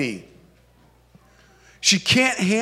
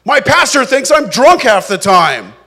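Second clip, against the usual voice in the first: higher and louder, pleading; Hannah at her limit; 4 semitones higher, 4 dB louder than usual. Acted. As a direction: voice a woman who can't take any more. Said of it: "She says".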